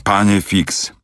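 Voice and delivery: a tipsy valet straining to stay loyal; understated drunken, slow loyal protest; drunken mumble. Acted. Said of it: "Z trudem zaczął bełkotać".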